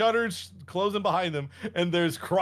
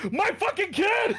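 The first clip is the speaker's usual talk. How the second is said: Dracula's hammed-up roar. Dracula yelling at the cultist who shot his son, mock roar. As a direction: bellow at the killer. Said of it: "Dracula comes down, de-smokes".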